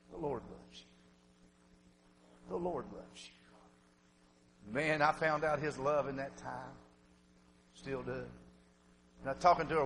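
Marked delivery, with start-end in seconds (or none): 0.1-4.7 slow, whispered reassurance at a deathbed; hushed, slow comfort; tender whisper. Retold or imitated. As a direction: breathe it very slowly and gently to a dying daughter. Father comforts dying daughter.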